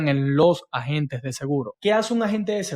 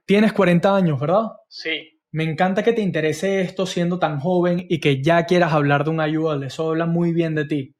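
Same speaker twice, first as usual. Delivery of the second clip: fake flattery. Shown as a demonstration. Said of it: "es un cumplido falso".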